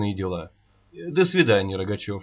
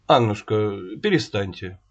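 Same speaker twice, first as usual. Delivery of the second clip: stern; 6 semitones lower than usual. Acted. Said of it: "строго сказал Лещенко".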